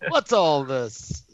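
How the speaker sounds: slow, drawn-out British bobby; British cop. Retold or imitated. Man imitating a British cop's classic line, slow and stern. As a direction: draw it out like a stuffy London constable. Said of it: "like the classic".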